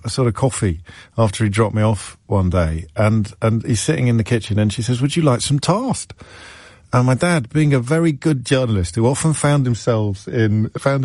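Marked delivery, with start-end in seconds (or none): 5.0-6.1 "toast" said tahst, very posh; plummy offer of "toast"; posh headmaster's wife. Retold or imitated. Presenter imitating the headmaster's wife's posh toast. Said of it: "That's how this person pronounced toast".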